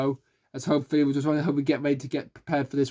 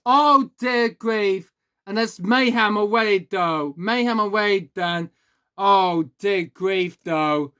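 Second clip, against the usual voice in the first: excited commentator; 3 semitones higher, much slower than usual. Acted. Crash erupts during restart.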